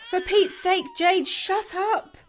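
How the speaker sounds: slow, dragged-out irritation; fed up, bite off each word; exasperated snap. Acted. Katie snapping at her crying baby Jade, exasperated.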